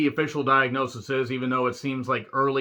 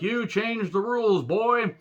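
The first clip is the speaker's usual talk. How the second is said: higher gruff mock wrestler line; mock Brock Lesnar; 7 semitones higher, slower than usual. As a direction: toss off the taunt like a swaggering brawler. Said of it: "And he's like".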